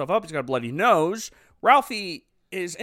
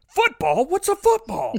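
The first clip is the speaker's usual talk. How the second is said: much higher, rising in mock puzzlement; mock baffled Santa; 14 semitones higher, 4 dB louder than usual. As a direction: play it as a goofy, confused Santa. Santa exaggerated.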